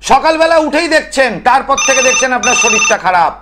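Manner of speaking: high-pitched, insistent explaining; emphatic oratory. Real, not acted. Tantric explaining restless ancestors to viewers, emphatic oratory.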